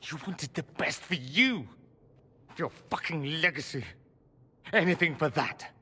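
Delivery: pained anger, pitch jumping at first; hurt accusation. Acted. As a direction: accuse your father, with a touch of bitterness. Acted quarrel, son accusing father.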